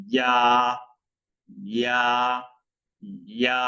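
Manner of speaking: ইয়া short with tongue at palate; Arabic ya. Shown as a demonstration. Teacher drills Arabic letter, short ইয়া. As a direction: clip ইয়া, one beat. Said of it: "পড়তে হবে এইভাবে".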